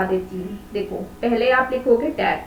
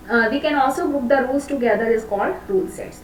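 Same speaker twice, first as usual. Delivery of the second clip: slow dictation; much slower than usual. Shown as a demonstration. Teacher dictating a definition.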